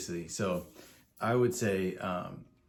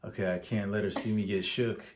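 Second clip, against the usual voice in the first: inner voice; 4 dB louder than usual. Retold or imitated. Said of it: "I'm kinda like".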